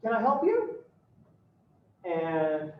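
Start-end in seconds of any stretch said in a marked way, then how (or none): 0.0-0.8 high, sing-song hammed-up greeting at the door; chirpy dad greeting. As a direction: greet the stranger with sugary cheer. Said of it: "And your father says".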